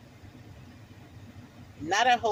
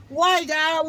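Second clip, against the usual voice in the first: rising plea; 5 semitones higher, 4 dB louder than usual. Retold or imitated. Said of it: "crying out to God".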